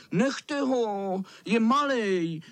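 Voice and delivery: shield the little one; boys protesting. A narrator's reading. Boys defend the smallest from the cat. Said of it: "křičeli kluci".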